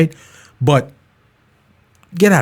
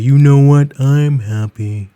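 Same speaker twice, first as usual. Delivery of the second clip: droopy impression; slower than usual. Droopy impression after mention.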